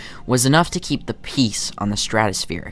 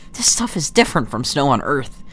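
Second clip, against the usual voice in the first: lightly voiced chatty kid, pitched up; a higher kid's voice; child friend; 4 semitones higher than usual. Voicing child friend in game.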